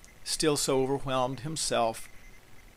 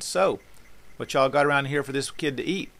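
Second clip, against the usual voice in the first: higher, louder casual folksy call; folksy Jesus; 4 semitones higher, 4 dB louder than usual. Acted. Jesus asks the household for food for the kid, folksy and casual. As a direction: casually call out to the room, voice lifted.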